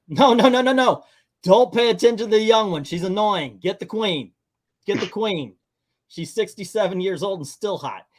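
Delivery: high, loud opening burst of protest; mock urgent pleading. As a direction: act out a panicked crowd redirecting the rescuers. Mimicking everyone's frantic reaction to rescue.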